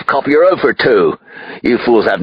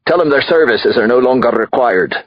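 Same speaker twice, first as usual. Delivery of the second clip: high, raised voice calling out an order; high, imperious holler; loud dismissal; 8 semitones higher, 4 dB louder than usual. Acted. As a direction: call it across the room to your lawyer. Drunk father jeers from the couch.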